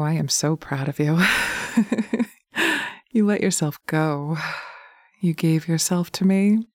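sensual hypnotic ASMR. Acted. Dominant partner guiding the listener through hypnosis, intimate murmur. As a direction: coax the listener like a lover in their ear.

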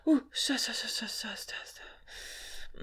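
breathless stop, fading to a whisper. Acted. Overstimulated after climax.

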